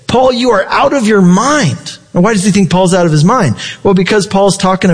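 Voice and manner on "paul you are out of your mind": governor cutting in, voice raised high; loud retort. Retold or imitated. Roman governor interrupting Paul, high raised mock outburst. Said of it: "says in a loud voice".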